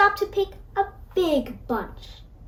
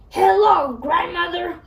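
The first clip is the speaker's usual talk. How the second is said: wolf growling the greeting, louder; growled; 3 semitones higher, 3 dB louder than usual. Acted. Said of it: "growled the wolf".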